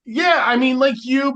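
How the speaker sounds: laughing it out, high and loud; amused laugh breaking into the answer. Real, not acted. Laughing at cohost's joke about sounding intellectual, laughing.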